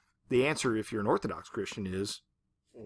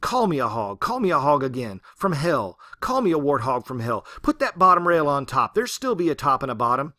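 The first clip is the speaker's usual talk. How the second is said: angry challenge; 6 dB louder than usual. Retold or imitated. Ruby raging at God.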